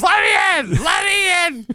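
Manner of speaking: high, loud re-enacted shout; frantic-sounding high holler; yelling up. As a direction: yell up to a window to be let in. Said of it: "I'm yelling up to the windows".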